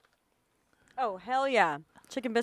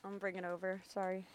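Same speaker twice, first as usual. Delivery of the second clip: chewing while talking; 3 semitones lower, 12 dB quieter, faster than usual. Real, not acted. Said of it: "Sorry, I'm chewing".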